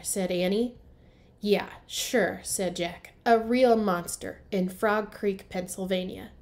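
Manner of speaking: storybook read-aloud for young kids, characters voiced; story narration. A narrator's reading. Teacher reading to first graders, lively storybook narration.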